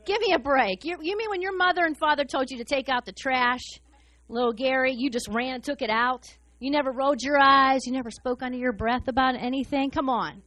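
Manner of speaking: mocking disbelief, seriously give me a break; incredulous. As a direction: scoff at the claim. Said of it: "if I were Jesus, I'd be like".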